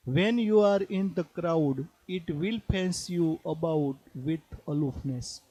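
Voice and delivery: slow, measured poetry reading; poem recitation. Acted. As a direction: read the verse slowly, phrase by phrase. Reads poem lines aloud. (ધીમું કાવ્ય પઠન)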